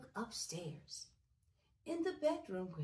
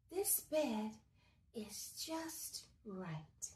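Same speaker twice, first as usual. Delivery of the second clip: content sigh; much slower than usual. Acted. Goldilocks content, drawn out slowly.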